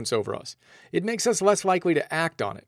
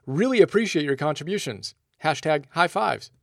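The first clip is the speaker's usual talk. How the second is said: sarcastic cheery thanks; chirpy, over-the-top thank-you to the mind; playful mock praise; mock grateful. Shown as a demonstration. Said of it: "say to yourself".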